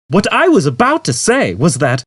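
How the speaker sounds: computer. A narrator's reading.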